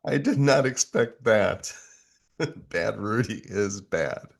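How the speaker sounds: loud, high, laughing disbelief; surprised laugh. Real, not acted. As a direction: react in real amused shock. Shocked by Bad Rudy's rant.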